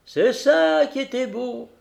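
put-on high, cracked old coach voice; old fairy voice. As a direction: speak as a creaky old stagecoach. Old diligence continues speaking.

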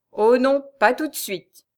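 bitter refusal, emphatic at the start. A narrator's reading. Husband refuses his wife a quick death, bitterly. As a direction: deny it to her bitterly. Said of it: "fit Raoul avec amertume".

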